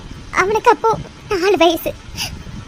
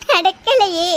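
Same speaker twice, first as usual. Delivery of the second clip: fading sob; much slower than usual. Acted. Mother laments to friend, fading into a sob. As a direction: let it die into a sob. Lament over lost daughter.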